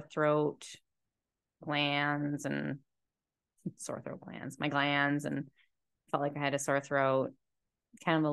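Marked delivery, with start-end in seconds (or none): 3.6-4.6 breathy laugh through the words. Real, not acted. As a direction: laugh while correcting yourself. Repeats words, laughs second time.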